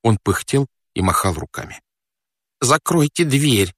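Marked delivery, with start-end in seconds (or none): 2.6-3.7 slow, higher-pitched plea; pleading request. Acted. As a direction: draw it out as an anxious request. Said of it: "попросил он". (просительно, медленно и повыше)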